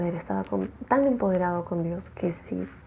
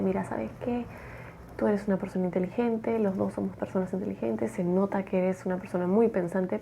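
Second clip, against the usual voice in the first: softer, coaxing manipulator's voice; soft flattering; 5 dB quieter than usual. Retold or imitated. Jim after the sermon quietly flattering the objector, soft and coaxing. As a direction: sweet-talk him quietly. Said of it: "Jim va y le habla".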